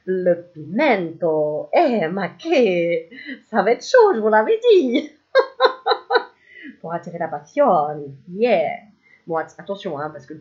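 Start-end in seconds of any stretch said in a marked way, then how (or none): 0.1-5.1 louder, slow hammy Italian-style voice; mock Italian. Cartomancer jokes about the spicy passion card, louder in a mock Italian voice. 5.3-6.3 high laugh. Real, not acted. Laughing at own joke.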